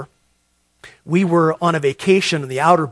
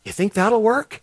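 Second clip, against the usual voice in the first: naive question, higher and rising; stupidly asking; 5 semitones higher than usual. Retold or imitated. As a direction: ask it like a clueless bystander. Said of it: "I stupidly say to him".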